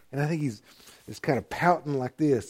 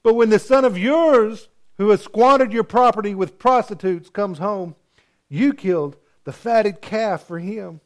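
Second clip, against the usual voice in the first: whiny voice; 7 semitones higher, 4 dB louder than usual. Retold or imitated. A pastor imitating the sulking older brother, high and whiny. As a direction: whine it like a pouting kid. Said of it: "they have that whiny voice".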